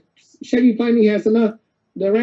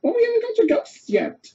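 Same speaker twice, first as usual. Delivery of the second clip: protesting ghost voice; 13 semitones higher than usual. Retold or imitated. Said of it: "And Nico's going".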